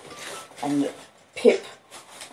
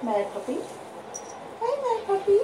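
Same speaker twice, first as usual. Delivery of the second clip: much higher sing-song voice for the dog; puppy talk; 5 dB quieter, faster than usual. Real, not acted. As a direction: coo up high at a mad puppy. Talking to the excited puppy.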